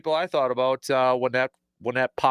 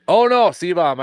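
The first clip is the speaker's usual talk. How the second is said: high loud groan of dismay; dismayed surprise; 7 semitones higher, 9 dB louder than usual. Real, not acted. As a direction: call cut off, oh no. Phone call drops out.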